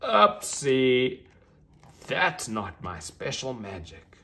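loud bright oopsie, then settling; a cheerful unicorn catching her mistake; lightly voiced young unicorn. Unicorn reacts to failed magic.

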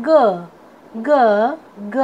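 ग as a lone "guh", spaced out; phonic letter sound. Shown as a demonstration. Teacher showing students the sound of G, phonic letter sound. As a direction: sound out ग as G starts "gun". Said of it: "जी का sound होता है".

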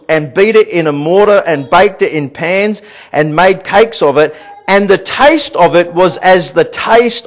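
emphatic scripture teaching from the pulpit; preaching. Real, not acted. Preacher teaching church about Israel and the manna, emphatic preaching. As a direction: preach it with weighted key words.

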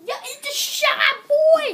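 high hyped-up shout; hype shout. Real, not acted. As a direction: hype up the crowd, loud. Hyping up the party guest.

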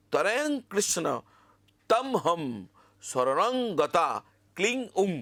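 slow dictation, each word set apart; staccato. Shown as a demonstration. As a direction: break the mantra into separate pieces. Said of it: "আমি কেটে কেটে বলার চেষ্টা করছি".

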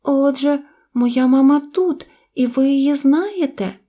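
high, eager little voice; hopeful baby mammoth. A narrator's reading. Baby mammoth asks animals about mother, high and eager. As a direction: ask high and full of hope.

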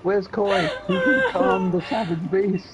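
mock scared, slow and shaky; shaky nervous falsetto. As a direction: play it frightened, wobbling. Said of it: "I'm scared".

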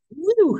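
high startled whoop after a sneeze. Real, not acted. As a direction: let out a sudden loud woo.

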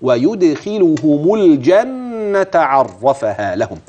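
slow tajweed reading, الجنة falling; Quranic recitation demo. Shown as a demonstration. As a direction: recite it slowly with clear tajweed. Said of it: "هكذا".

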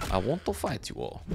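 lapse into a light Russian accent. Real, not acted. Player challenging the zombies to a fight, light Russian accent. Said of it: "I turn Russian whenever I start fighting".

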